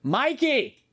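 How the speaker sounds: put-on high Boston-accented call. Host mimicking contestant calling teammate, hammed-up Boston accent. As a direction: holler the name like a hammed-up Bostonian. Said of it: "do lava in a Boston accent".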